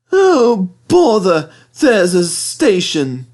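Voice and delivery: high, loud vexed engine; annoyed Thomas. Acted. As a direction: grumble it, slowing.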